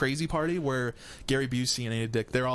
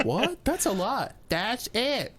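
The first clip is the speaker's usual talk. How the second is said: mock surprised customer; 8 semitones higher, much slower than usual. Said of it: "used car salesman".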